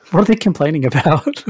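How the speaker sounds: amused, incredulous quote with laughter in it; laughing complaint. Retold or imitated. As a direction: laugh through the question. Laughing while quoting their own complaint.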